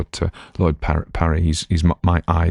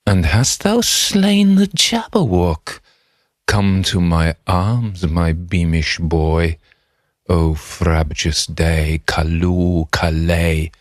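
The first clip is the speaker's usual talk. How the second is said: joyful father; much slower than usual. Acted. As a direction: welcome the hero son home with delight. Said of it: "mirror the joy of, uh, the father".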